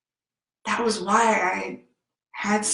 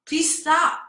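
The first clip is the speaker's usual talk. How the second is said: re-enacted child's plea, high and louder; tearful pleading; 8 semitones higher, 4 dB louder than usual. Crying child begs yelling adults in the car, tearful pleading. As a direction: beg them to stop through tears. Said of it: "I'm crying. I'm saying".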